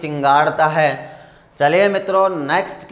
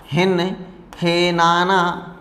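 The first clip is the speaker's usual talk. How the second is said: drawn-out neigh word; much slower than usual. Shown as a demonstration.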